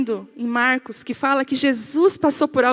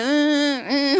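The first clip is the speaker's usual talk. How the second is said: imitated phone buzz; phone vibrating. Telling how her phone went off, imitated buzzing. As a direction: hum like a vibrating mobile.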